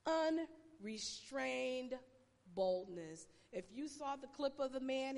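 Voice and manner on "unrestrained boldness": drawn-out, deliberate phrase; slow emphasis. Shown as a demonstration. Pastor drilling her catchphrase to the church. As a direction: stretch every syllable. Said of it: "another Pastor Andrea-ism".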